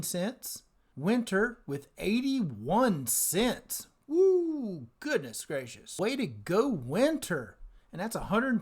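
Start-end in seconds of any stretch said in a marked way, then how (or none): 4.1-4.9 high, drawn-out "woo"; delighted whoop. Real, not acted. Host cheers Winter's big distribution, delighted whoop.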